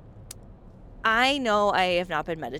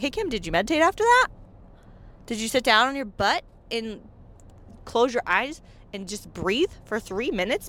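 nudging viewer; 2 semitones higher than usual. Pretend. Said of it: "be like".

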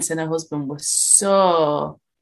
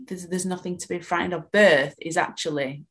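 calm reassurance. Retold or imitated. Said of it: "explain to them".

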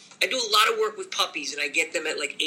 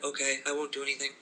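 cowed dog; 4 semitones lower, faster than usual. Pretend. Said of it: "shut your dog down so they're like".

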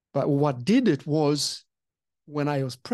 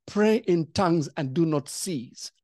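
calm command; slower than usual. Retold or imitated. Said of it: "I heard the Holy Spirit say".

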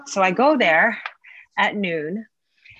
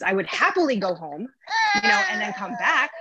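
tearful; 5 semitones higher than usual. Real, not acted. Upset retelling, voice breaking.

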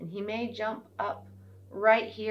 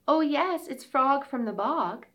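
frog voice; 8 semitones higher, 5 dB louder than usual. Acted. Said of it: "said the frog".

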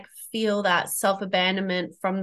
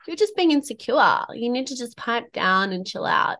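higher-pitched dismissive self-talk; mock self-gaslighting; 4 semitones higher than usual. Woman voicing the self-talk that gaslights us, mock dismissive. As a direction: imitate brushing off your own worries. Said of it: "we gaslight ourselves".

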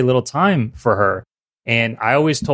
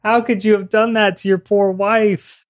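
high-pitched playful scolding; hammed-up indignation on someone's behalf; mock outrage; 9 semitones higher than usual. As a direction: scold a friend in pretend horror, pitched way up. Teasing scolding of friend's story.

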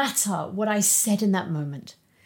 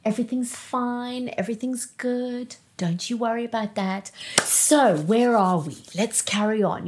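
forced cheerful smile. Retold or imitated. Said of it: "the big Sunday smile".

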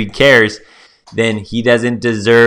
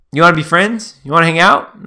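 higher-pitched, lightly acted invitation; eager new friend; 6 semitones higher than usual. Guy on the beach seeking friends, eager. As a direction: pitch it as a hopeful, casual offer.

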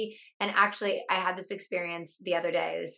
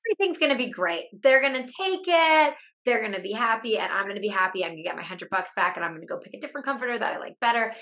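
forced optimism; 3 semitones higher, faster than usual. Retold or imitated. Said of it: "that thought just felt like such a stretch".

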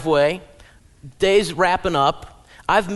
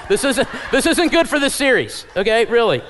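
laughing; 4 semitones higher, 5 dB louder than usual. Real, not acted. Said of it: "joking at a couple".

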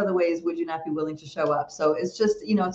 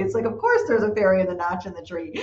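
laughing; 4 semitones higher, faster than usual. Real, not acted. Mocking Facebook fact checks.

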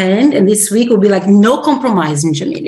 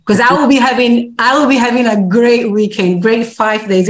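excited; 4 semitones higher than usual. Real, not acted. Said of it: "can you hear it in her voice".

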